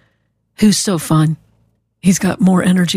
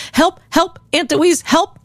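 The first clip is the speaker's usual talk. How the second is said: put-on high, playful little-boy help call; a two-year-old pretending he needs rescuing; toddler mock cry for help; 8 semitones higher, slower than usual. Nephew pretending to need help.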